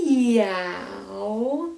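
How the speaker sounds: long drawn-out cat meow. Shown as a demonstration. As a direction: meow like a cat while massaging. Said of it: "meow like a cat".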